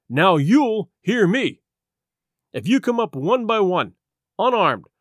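firm, forceful captain laying down terms; defiant officer dismissing a mutineer; stern Captain Smollett. Acted. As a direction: lay down the law like a ship's captain.

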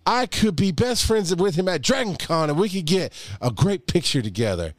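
high, booming mock preacher. Podcast host mock-preaching to his co-host in a preacher voice. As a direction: preach it like a hammed-up pastor from the pulpit. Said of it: "This is my preacher voice".

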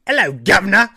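loud, high hammed-up Cockney "Hello, governor!"; mock British accent. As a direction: belt out a cartoon British greeting. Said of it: "how the hello would be a speech impediment".

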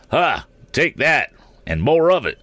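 high-pitched triumphant attack cry; Mister Damon shouting. A narrator's reading. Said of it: "shouted Mister Damon".

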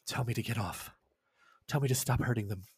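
low, soft, controlled threat; menacing Agnes. Acted. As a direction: say it low and quiet, toying with them. Agnes speaks while being hit.

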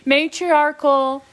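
slow, drawn-out ceremonial pronouncement; solemn blessing voice. Pretend. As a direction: intone it like a priest giving a blessing. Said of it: "I'm building the aesthetic".

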